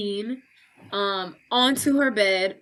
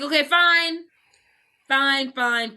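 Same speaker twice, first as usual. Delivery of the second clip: mock exasperated surrender; 4 semitones higher, slower than usual. Max gives in to demand.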